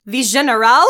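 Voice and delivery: loud, questioning echo in fake French; mock French accent. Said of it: "baddest French accent this entire time".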